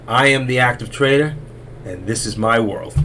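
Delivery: proud slogan, falling at the end; grand self-announcement, dropping to the close; catchphrase sign-off. Acted. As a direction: announce it like it's your own show. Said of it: "You know where I got that from?".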